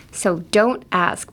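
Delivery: don't ask with the T dropped, run together slowly; slow drilled don't ask. Shown as a demonstration. Teacher drills don't ask for learners.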